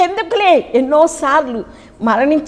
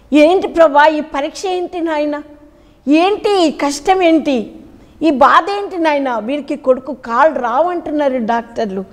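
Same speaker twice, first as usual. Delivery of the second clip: tearful prayer; 3 semitones higher than usual. Retold or imitated. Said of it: "అని నేను చాలా ఏడ్చిన".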